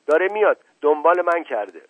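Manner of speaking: high, loud panicky answer; alarmed warning. Acted. Girl warning father that mother follows, alarmed. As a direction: warn them urgently.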